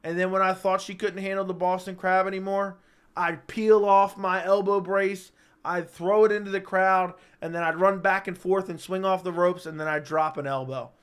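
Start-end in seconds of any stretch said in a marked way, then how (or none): 3.2-7.1 excited. Pretend. Hyped wrestling fantasy.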